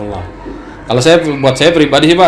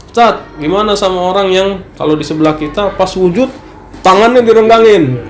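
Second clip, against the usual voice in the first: imitated venting; 6 semitones higher than usual. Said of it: "orang ini curhat sebenarnya".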